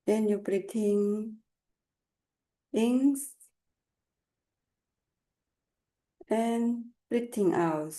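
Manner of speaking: calm unhurried meditation guidance; guided meditation. Acted. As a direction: lead them gently with long pauses. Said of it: "I will start Togai meditation".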